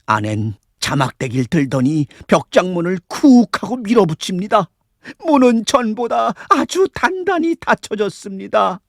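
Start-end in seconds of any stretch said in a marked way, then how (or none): none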